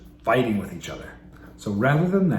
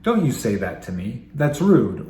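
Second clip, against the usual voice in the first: scolding parent; 3 dB louder than usual. Shown as a demonstration. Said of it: "rather than responding by saying".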